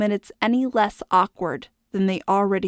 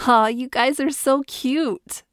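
teasing; 5 semitones higher than usual. Acted. London teasing the couple.

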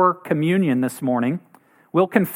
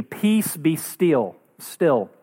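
calm command; much slower than usual. Retold or imitated. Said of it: "says to the sea".

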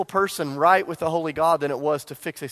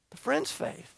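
soft whispered answer; 10 semitones higher, 8 dB quieter, slower than usual. Acted. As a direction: let the answer land in a whisper. Whispered answer to his question.

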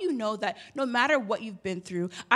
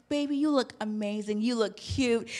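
reassuring; 4 dB quieter than usual. Retold or imitated. Reassuring daughter about haircut.

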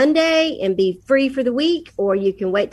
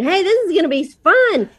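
higher, bright sing-song pitch; chipper mom; 7 semitones higher than usual. Retold or imitated. Mom shaking up plans for her green daughter, mock chipper. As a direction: sell it like a cheerful surprise. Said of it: "So for you shaking it up".

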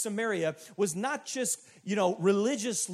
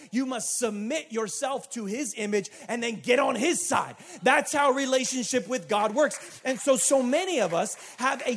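preaching shout; 3 semitones higher, 5 dB louder than usual. Real, not acted. Preacher drives home his point.

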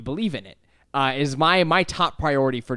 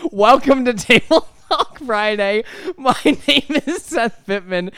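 a slow show welcome, laughing, higher; laughing intro; 9 semitones higher, 5 dB louder, slower than usual. Real, not acted. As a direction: open the show while you can't stop laughing.

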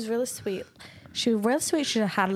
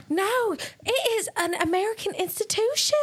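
Southern insistence; 10 semitones higher than usual. Retold or imitated. The Nashville sister insisting Annie try Cracker Barrel, high Southern twang. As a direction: insist it's an American institution, high and twangy. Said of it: "that's pretty good".

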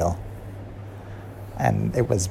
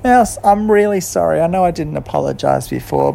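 higher, louder plea from Kat; Kat apologising; 9 semitones higher, 5 dB louder than usual. A narrator's reading. Kat to Mouse, higher and earnest. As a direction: say sorry to Mouse from the heart. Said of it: "And then Kat said".

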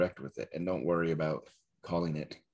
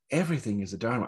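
sugary sincere; 5 semitones higher, faster than usual. Shown as a demonstration. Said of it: "I could say it like that".

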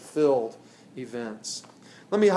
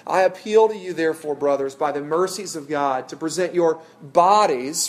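a raised, ringing scripture reading; 4 dB louder than usual. Acted. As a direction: proclaim the verse to the congregation. Reads Romans aloud from scripture.

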